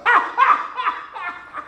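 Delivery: high, forced ha-ha laugh; mock laughter. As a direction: fake cheerful cackle. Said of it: "slapped with some tragedy and go".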